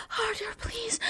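soft breathy whisper. Acted. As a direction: whisper it close to the ear. Whispered plea.

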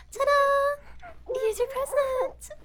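bright, high ta-da; excited reveal. Acted. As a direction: present it like a showpiece. Grand reveal of the captive.

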